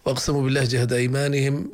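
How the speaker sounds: وأقسموا بالله جهد أيمانهم read as a whole phrase, rising and held at أيمانهم as if the sentence ends there; pausing wrongly after أيمانهم; wrong pause after أيمانهم. Shown as a demonstration. Teacher demonstrating the wrong stop before لا يبعث. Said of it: "خطأ منا إذا قرأنا ... ووقفنا".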